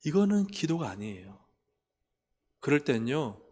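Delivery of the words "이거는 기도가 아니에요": normal talking voice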